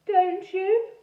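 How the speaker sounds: put-on high, slow ghost boy with a French-ish accent; funny French-ish accent. A narrator's reading. Ghost boy Edmund speaking.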